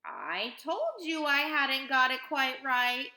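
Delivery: high, loud, drawn-out lament; rueful, slow complaint; sighed sadly. A narrator's reading. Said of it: "sighed Mister Wonka, shaking his head sadly".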